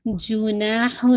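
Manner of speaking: جناح very slow, no long alif on نا, ح clear; slow tajweed demo of جناح; short na. Shown as a demonstration. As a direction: say جناح slowly without stretching نا. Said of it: "نا کو الف مت دیا".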